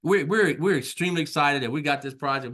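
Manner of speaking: bubbling over about the new project; acting out excitement. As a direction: play the giddy business owner who just won the job. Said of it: "We're excited".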